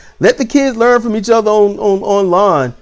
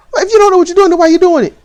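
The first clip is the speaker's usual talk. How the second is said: raised scolding question; 10 semitones higher, much faster than usual. Retold or imitated. Parent scolding daughter retold.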